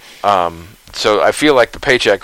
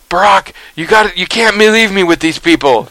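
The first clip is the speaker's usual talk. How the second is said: higher-pitched mock pleading; Biden; 9 semitones higher than usual. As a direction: plead like a friend afraid of being left behind. Biden pleads not to be left.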